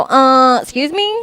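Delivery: a sharp high rising "excuse me?" in disbelief; indignant. Retold or imitated. Aunt hearing a boy say girls can't, indignant. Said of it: "And I go".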